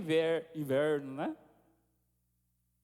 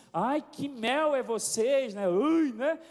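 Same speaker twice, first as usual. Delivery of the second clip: higher, drawn-out mimicked gushing; mock teasing; 4 semitones higher, 4 dB louder, much slower than usual. People teasing a newlywed couple, mock gushing. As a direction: imitate onlookers fussing over the lovebirds.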